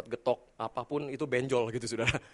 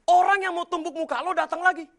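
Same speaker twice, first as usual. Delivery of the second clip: loud, high panicked plea; frightened wife; 14 semitones higher, 8 dB louder than usual. Retold or imitated. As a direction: beg him to come home now. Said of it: "istri saya ketakutan". (istri ketakutan meminta suami cepat pulang)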